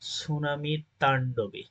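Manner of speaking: তাণ্ডবে slowed and leaned on, falling at the end; slow down and press তাণ্ডবে; slow stress on তাণ্ডবে. Shown as a demonstration. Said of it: "এই যে তাণ্ডব".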